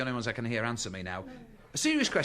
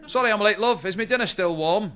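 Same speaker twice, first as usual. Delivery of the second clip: sheepish husband; 6 semitones higher, 6 dB louder than usual. Acted. Husband late for Sunday lunch.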